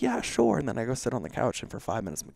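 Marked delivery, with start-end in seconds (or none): 0.0-0.6 mock breezy reply. His dismissive reply to wife.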